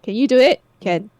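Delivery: Singlish. Shown as a demonstration. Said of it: "It's a legit sentence".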